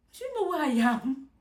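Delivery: reliving an upset outburst; upset protest. Retold or imitated. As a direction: cry out, upset at your situation. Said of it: "I'm upset that I'm in this situation".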